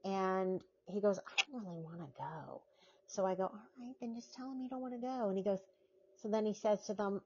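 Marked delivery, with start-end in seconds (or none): 1.2-2.6 quick, much softer mumble of not wanting to go; muttered refusal. Retold or imitated. Retold boyfriend muttering his refusal. 3.4-5.3 fast, much softer urging; hushed urging. Retold or imitated. Retold herself urging in whisper.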